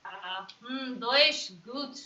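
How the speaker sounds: lightly put-on German accent. Showing off German to a teasing partner, mock German accent. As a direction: try a brief, halting German accent. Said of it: "accent of".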